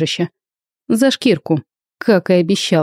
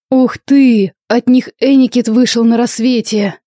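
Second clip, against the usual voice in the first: surprised exclamation; 6 semitones higher than usual. A narrator's reading. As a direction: gasp out the gossip in delight. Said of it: "удивлённый возглас".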